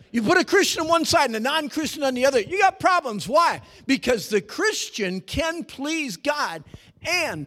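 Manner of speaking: high, loud pulpit shout; fiery sermon delivery; full-force preaching. Acted. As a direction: preach it out to the back row.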